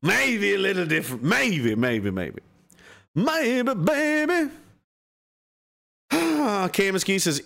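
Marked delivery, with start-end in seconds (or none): 3.1-4.5 playful quip. Real, not acted. Playful sing-song quip.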